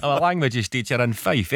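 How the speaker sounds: imitating a Fife accent lightly; gently mocked Fife accent, Scottish lilt. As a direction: mimic the caller's Fife accent. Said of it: "That's an accent. Have you heard them, eh?".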